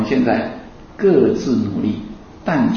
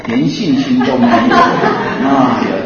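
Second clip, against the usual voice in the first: laughing tease. Real, not acted. Laughing teasing audience.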